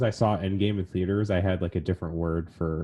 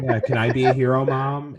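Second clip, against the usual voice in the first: a lightly voiced hopeful kid, a bit higher; young boy asking; 5 semitones higher, 4 dB louder than usual. Little boy asking his mom if he can be a hero, lightly higher and hopeful. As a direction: ask like a small boy looking up at his mom.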